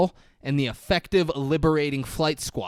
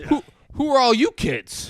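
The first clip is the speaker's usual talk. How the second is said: loud, high-pitched bewilderment; mock startled cop; 12 semitones higher, 7 dB louder than usual. Cop finds elves surrounding him, mock alarm. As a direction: blurt it out like a hammed-up startled cop.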